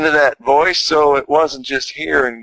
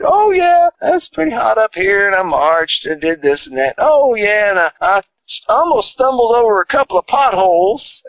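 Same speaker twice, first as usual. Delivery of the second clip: put-on higher, chirpy old mother's voice; voicing his mama; 6 semitones higher than usual. Son imitates his mama on the phone, chirpy and higher. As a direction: lightly play his upbeat ninety-six-year-old mama. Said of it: "And she said".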